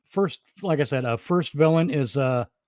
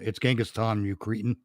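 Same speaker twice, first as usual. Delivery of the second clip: emotionless villain; 3 semitones lower, 3 dB quieter than usual. Retold or imitated. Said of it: "he's emotionless".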